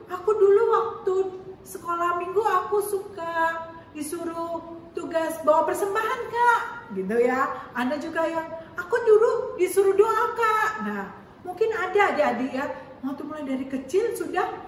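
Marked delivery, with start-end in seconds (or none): 0.1-6.6 put-on excited child telling the teacher; eager child. Teacher voices a Sunday-school child. 8.7-10.7 put-on higher, louder sing-song kid voice; eager child. Teacher voices another child.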